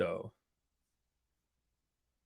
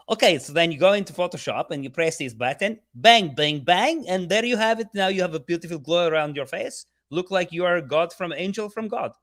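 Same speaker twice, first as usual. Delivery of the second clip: imitated Swedish accent; 4 semitones higher than usual. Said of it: "He's, like, Swedish or something".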